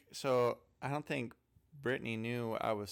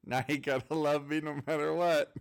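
mock triumphant; 3 semitones higher, 5 dB louder than usual. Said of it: "And then I was like".

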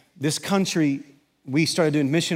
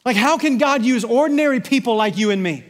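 higher, louder sermon push; fervent preaching; 10 semitones higher, 7 dB louder than usual. Acted. Pastor rallies congregation about making disciples, fervent preaching. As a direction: preach it with rising fire.

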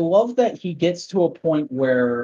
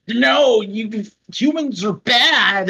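villain voice; 7 semitones higher, slower than usual. Retold or imitated. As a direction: bark it like a cartoon villain. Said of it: "And then they're like".

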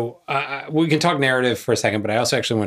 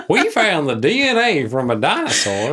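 laughing; 5 semitones higher, 3 dB louder than usual. Real, not acted. Joking excitement over dinosaur DNA.

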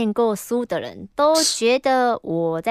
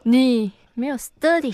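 put-on Taiwanese accent. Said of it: "台湾国语".

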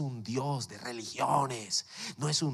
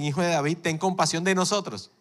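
pleading call; 4 semitones higher, 5 dB louder than usual. Acted. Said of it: "los dos ciegos que dicen".

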